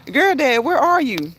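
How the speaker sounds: slow, drawn-out call for a missing friend; playful calling out. Pretend. Host calling for a viewer who left the chat, playfully calling out. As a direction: call out for someone who wandered off, unhurried.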